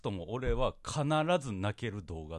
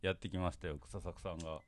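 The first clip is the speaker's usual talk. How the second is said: talking around a cigarette; words slurred by a cigarette; cigarette in mouth; 4 semitones lower, 5 dB quieter than usual. Real, not acted. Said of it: "タバコ吸いながらね、喋ったもんで".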